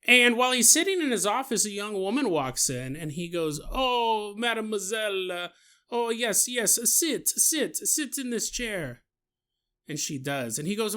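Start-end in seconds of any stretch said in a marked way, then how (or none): 3.7-9.0 put-on French accent. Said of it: "You're gonna do this stupid accent".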